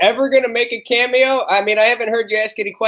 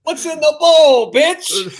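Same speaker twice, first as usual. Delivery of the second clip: Dice Clay bit; 5 semitones higher, slower than usual. Retold or imitated. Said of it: "Dice Clay".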